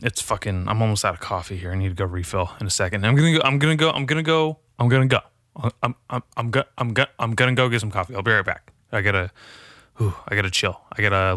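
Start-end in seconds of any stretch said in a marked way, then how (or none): 3.0-8.1 playful stammered repeats; stuck-record repeating. Pretend. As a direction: stutter it like a skipping record. Stammering repeats before leaving for coffee.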